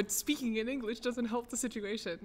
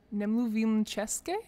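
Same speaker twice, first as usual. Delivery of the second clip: butchered American accent; 6 dB louder than usual. Shown as a demonstration. Practising a Czech phrase with the translator, butchered American accent. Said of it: "in butchered American accent".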